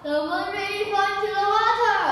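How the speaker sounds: high, fast excited cry; older monkey shouting in disbelief. Acted. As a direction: blurt it out in amazement. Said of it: "take a look and shouts".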